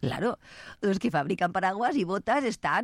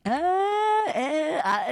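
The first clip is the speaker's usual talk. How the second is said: a high, loud startled yelp; sudden squeal; surprised cry; 11 semitones higher, 3 dB louder, much slower than usual. Real, not acted. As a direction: burst out in alarm. Startled outburst.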